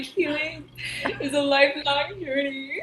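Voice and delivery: laughing through it; giggling mock wisdom; laughing quote. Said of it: "I'm like".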